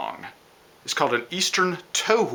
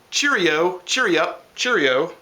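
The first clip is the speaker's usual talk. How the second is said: higher, sing-song bird call; robin call imitation; 4 semitones higher, 3 dB louder, slower than usual. Teacher imitating a robin for learners, higher sing-song call. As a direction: chirp it like a robin. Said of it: "They sound like they're saying".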